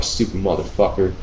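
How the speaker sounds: mumbled insult. Retold or imitated. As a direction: grumble it as he walks off. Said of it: "I'm mumbling shit".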